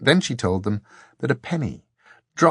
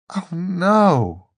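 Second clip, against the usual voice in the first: high, louder cry of dismay; dismayed protest; 9 semitones higher, 5 dB louder than usual. A narrator's reading. Dor hears who must face the ordeal, dismayed. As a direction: protest as the dread lands.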